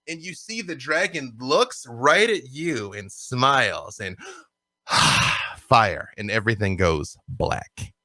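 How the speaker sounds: dramatic, deliberate storytelling; game master's vision. Acted. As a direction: narrate a fiery flashback with grave weight. GM narrates end of vision.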